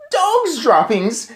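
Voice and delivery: high, loud, slow yell. Acted. Witch smelling a child, yelling. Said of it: "she yelled".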